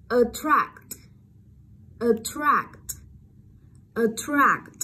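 attract with a clear flat æ in the second syllable; open e vowel. Shown as a demonstration. Teacher drills the vowel, attract with a clear open æ. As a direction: model "attract", opening the stressed A to æ. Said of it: "A là dấu hiệu của âm e bẹt".

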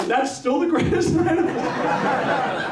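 high, laughing through the words; laughing disbelief. Real, not acted.

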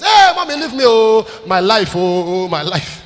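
hammed-up loud cry, starting high and dropping; mock protesting wail. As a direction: wail it out to fend off mum. Acting a child refusing mother.

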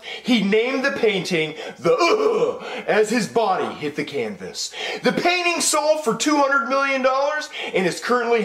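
TV newscaster delivering breaking news; news anchor. Acted. TV anchor announcing a famous painter's death, newsreader delivery.

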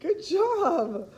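high, laughing pet praise. Real, not acted. Owner praises her dog after he sings, laughing. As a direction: praise the dog through giggles.

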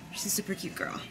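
very soft whisper; barely voiced, under the breath; whispered aside. Real, not acted. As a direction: drop to a hushed, private aside. Quiet aside while filming in store.

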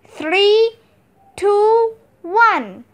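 counting down to the red camera light; excited countdown. Acted. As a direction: count the crew in with energy. Countdown before going on air.

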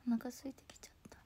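breathy whisper of お腹空いてきちゃった, fast. Real, not acted. Streamer tells viewers she's getting hungry, whispered. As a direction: murmur it to yourself.

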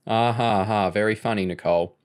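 dry mock laugh, unamused; sarcastic. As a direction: fake ha-ha at a bad joke. Mock laugh at Nicole's joke.

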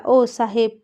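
calling out. Acted. Rudra calling down from the tree to Vishal, loud call. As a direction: hail him from the treetop.

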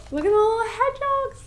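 high, quick cooing over something cute. Real, not acted. To viewers, gushing over hedgehog stickers, high coo. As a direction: coo at them like tiny pets.

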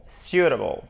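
SUITABLE with the stress marked, pitch falling after it; stressed syllable shown. Shown as a demonstration. Teacher showing learners the tonic accent, stress marked on SUITABLE. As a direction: model word "suitable", stress clearly placed. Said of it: "Vous avez l'accent tonique ici".

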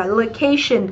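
"Location" with the weight on CA; stress on second syllable. Shown as a demonstration. Teacher explaining the tion rule, "Location" stressed before the ending. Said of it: "trọng âm giêm tiếp thứ hai".

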